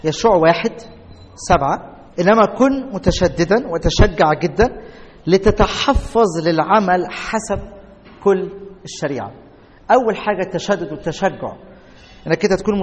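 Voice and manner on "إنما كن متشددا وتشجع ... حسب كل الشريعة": slow, deliberate reading of the verse; scripture reading. Acted. Preacher reads Joshua to the congregation, slow and deliberate. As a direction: read each word out, weighing it.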